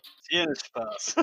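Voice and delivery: whispered echo, unvoiced. Shown as a demonstration. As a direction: breathe it back as a whisper. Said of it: "Du kennst die Geste". (geflüstert nachgesprochen)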